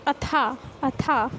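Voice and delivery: अथा said slowly with an aspirated "ha" ending; slow, careful demo of अथा ending in हा; visarga as ha. Shown as a demonstration. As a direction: sound out the visarga at the end of अथा. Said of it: "हा का sound देता है".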